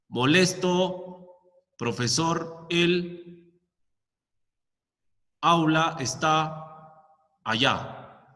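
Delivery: slow, broken into halting fragments; each word dropped slowly with long gaps; jumbled halting sentence. Shown as a demonstration. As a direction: say it as a muddled, disordered thought. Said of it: "Tú no dices algo así".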